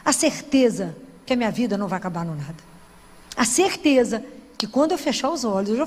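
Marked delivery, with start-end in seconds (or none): none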